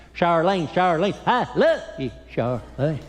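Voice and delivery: a hint of lovesick hillbilly calling out; lightly voiced lovestruck yokel; Ernest T. Bass impression. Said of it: "I remember Ernest T. Bass".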